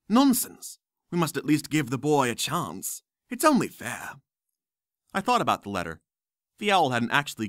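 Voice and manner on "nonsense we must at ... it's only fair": put-on emphatic old wizard. Dumbledore overrules.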